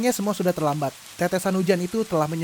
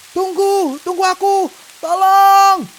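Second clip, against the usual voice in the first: much higher, loud pleading shout; desperate cry for help; 12 semitones higher, 9 dB louder, slower than usual. Acted. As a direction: beg them to wait. Bitten man begging for help.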